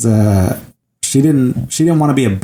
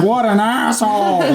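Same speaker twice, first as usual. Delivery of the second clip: higher, said through laughter; laughing retold insult; 8 semitones higher than usual. Recapping his crude reply to co-host, laughing. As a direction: crack up while quoting the character. Retelling a character's line, amused.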